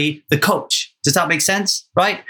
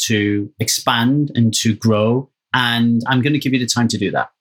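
lower, measured, sincere promise; gentle reassurance; 6 semitones lower than usual. Acted. Husband promising wife time for her dreams, reassuring. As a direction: settle down and speak supportively to a partner.

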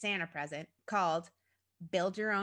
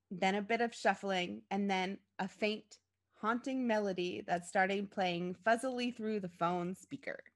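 plain reading voice

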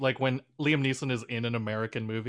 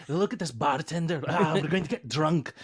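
Scottish dwarf. Retold or imitated. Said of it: "I'm tired of doing Scottish dwarves".

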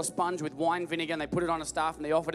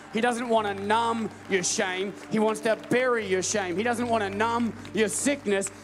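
raised, slowed preacher's delivery, landing hard on key words; emphatic preaching; 4 semitones higher, 3 dB louder than usual. Real, not acted. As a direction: preach it to rouse the congregation. Preaches at rising force.

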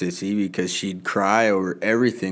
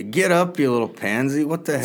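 raised pitch, gruffly teasing order; mock tough-dad scolding; 4 semitones higher than usual. Dad to an imagined little boy, mock-impatient scolding. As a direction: pretend to scold a kid.

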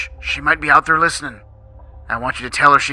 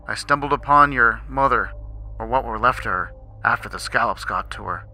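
shaky voice; 3 semitones higher, 3 dB louder than usual. Acted. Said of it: "in a shaky voice".

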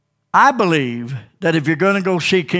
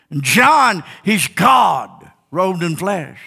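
emphatic, higher-pitched preacher cadence; fervent preaching; 5 semitones higher, 3 dB louder than usual. Real, not acted. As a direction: proclaim each title to the congregation. Preaches with raised voice.

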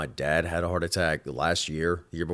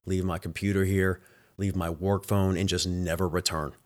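desperate prayer; 3 semitones lower, 4 dB quieter than usual. Retold or imitated. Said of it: "And I just prayed".

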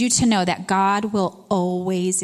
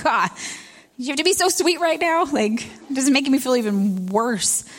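mock exasperated; 5 semitones higher than usual. Mock exasperation at sweet kids.

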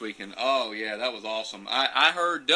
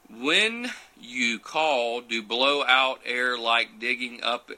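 reading the question out slowly, word by word; host reading a viewer's question aloud, slowly; slow halting reading; much slower than usual. Real, not acted. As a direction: puzzle through an odd written question. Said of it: "you're speaking in those daggone riddles".

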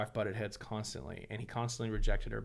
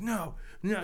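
put-on high, pleading no, no like a sobbing kid; imitating a crying boy; 9 semitones higher than usual. Imitating his sobbing son refusing to talk. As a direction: push away the covers, whining no.

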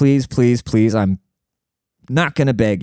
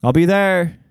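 higher, eager yes-man voice; eager buddy voice; 8 semitones higher than usual. Retold or imitated. Imitating a friend eagerly agreeing to help out. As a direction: lightly play the keen friend agreeing. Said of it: "He'd be like".

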